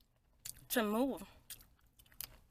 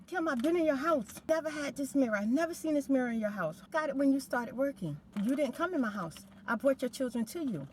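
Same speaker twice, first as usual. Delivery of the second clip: heated accusation; 4 semitones higher than usual. Retold or imitated. Quarrel with neighbour continues.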